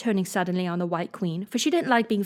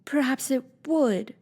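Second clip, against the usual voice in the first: cautious; 5 semitones higher, slower than usual. Acted. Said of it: "Alice replied cautiously".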